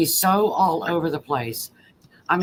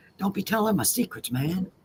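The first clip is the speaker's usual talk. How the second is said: put-on whisper, quieter; 5 dB quieter than usual. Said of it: "he holds his hand up on his lips and he's whispering to you".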